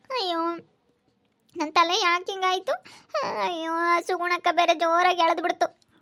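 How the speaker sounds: tearful wail about her hair; crying complaint. Acted. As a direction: whine it through tears. Daughter wailing over lost hair. (ಅಳುತ್ತಾ ದೂರುವುದು)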